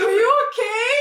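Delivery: high-pitched, mock-gentle voice of the calm date; calm concern. Date checking on the angry, late woman, imitated calm concern. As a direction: imitate his mild concern in a high lilt. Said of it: "And he was so calm".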